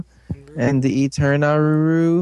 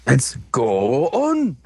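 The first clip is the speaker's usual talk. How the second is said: slow; much slower than usual. Pretend. Slow drawn-out.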